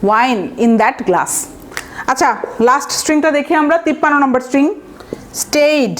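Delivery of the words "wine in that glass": very slow, word by word example sentence; teacher dictating slowly; slow dictation. Shown as a demonstration. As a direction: spell it out slowly for the class. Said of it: "অথবা".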